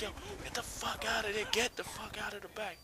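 high, urgent mock yell at teammates; shouting at teammates hiding in the back; retold yelling. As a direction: yell at them to clear out of the spawn. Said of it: "I'm yelling".

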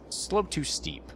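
high, slow, breathy robot-like warning; mock game warning. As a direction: read it out like a pompous machine. Reading the game's warning.

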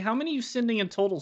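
teasing voice for Andrew. Pretend. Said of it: "He likes to be talked to like this".

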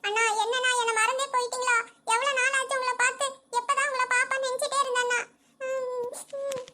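tearful complaint, breaking into sobs at the end; crying. Acted. Sister tells visiting brother he forgot her, crying. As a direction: complain through tears, then sob. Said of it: "ஏன் அழுகுற?".

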